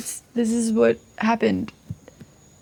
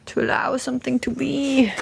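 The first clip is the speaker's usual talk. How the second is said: whispering; 5 semitones higher than usual. Real, not acted. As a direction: breathe it like an intention. Naming intention while drawing.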